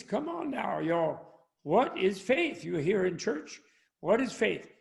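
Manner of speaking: coaxing Southern preacher, pitch jumping up; American Southern accent. Acted. Preacher repeating his question to a silent church, American Southern accent. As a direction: prod them for an answer in a Southern accent. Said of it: "going into an American Southern accent".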